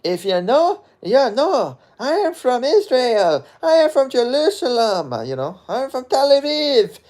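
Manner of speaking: high, slow, put-on Israeli accent. Shown as a demonstration. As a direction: show off your Israeli accent as a model would. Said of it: "that's my Israeli accent".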